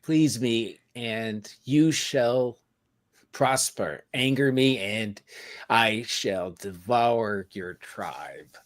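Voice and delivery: slow, commanding demon queen; lightly voiced demanding goddess; she demon. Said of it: "costume of a she demon".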